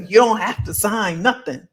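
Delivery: emphatic, a touch heated; getting heated. Real, not acted. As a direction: insist on it, heat creeping in after a laugh. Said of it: "I get heated".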